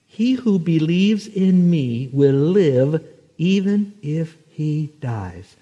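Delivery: slow, weighty scripture reading; quote read slowly. Shown as a demonstration. Preacher to graveside crowd, slow and weighty. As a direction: let each word of the verse land. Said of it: "Let me say that slowly".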